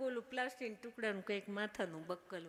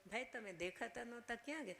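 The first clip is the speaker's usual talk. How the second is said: hurried quote; 3 semitones higher, 6 dB quieter, faster than usual. Retold or imitated. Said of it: "એવા ઉતાવળે બોલે".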